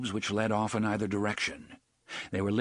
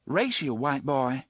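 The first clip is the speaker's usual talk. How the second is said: playful challenge; 4 semitones higher than usual. Acted.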